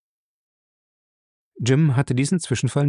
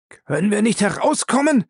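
high, frightened whine; whining; 10 semitones higher, 3 dB louder than usual. Acted. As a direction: whimper it out in panic. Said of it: "winselte Lacey".

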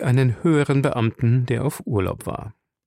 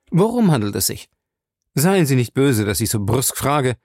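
brusque question, then easing into apology; impatient; 2 semitones higher than usual. Acted. Jim questions Fay about Smith, mildly impatient. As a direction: press for an answer, then soften the demand. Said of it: "fragte er ungeduldig".

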